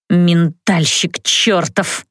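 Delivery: slow, low words squeezed out through the teeth; hissed through teeth. Acted. Mother snarls at the mind-reading mage, slow and low. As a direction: spit the insult out slowly and coldly. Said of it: "процедила мама".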